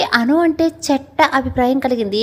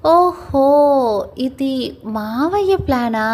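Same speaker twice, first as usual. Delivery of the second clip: sly jab; much slower than usual. Acted. Sarcastic jab at uncle's plan.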